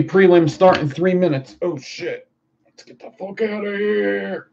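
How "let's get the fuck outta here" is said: playful high-voiced hurry; raised-pitch urgency. First urgent take, then repeated higher.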